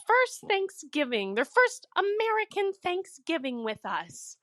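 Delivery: high-pitched imitation of mom's earnest toast; mock gushing gratitude. Mom giving thanks at blended Thanksgiving dinner, mock gushing.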